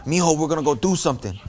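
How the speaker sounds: a hint of a confident, bold grandpa. Grandpa telling grandson, confident and bold. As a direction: say it like he owns the plan. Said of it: "With confidence, with bold".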